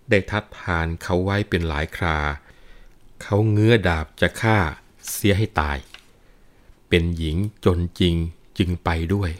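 measured Thai verse reading; lilting storyteller's recital of a classic poem; poetry recitation. A narrator's reading. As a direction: read it as rhymed verse, phrase by phrase.

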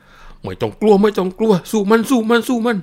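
put-on old man with a spear shouting to fight the thief; calling out. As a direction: charge out yelling encouragement.

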